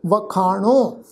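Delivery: ਵਖਾਣੋ with a nasal final vowel, as with a bindi; ਵਖਾਣੋ ending nasal; nasal pronunciation. Shown as a demonstration. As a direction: say ਵਖਾਣੋ with the last vowel through the nose. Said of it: "ਬਿੰਦੀ ਸਹਿਤ ਪਾਠ ਉਚਾਰਨ ਕਰਾਂਗੇ".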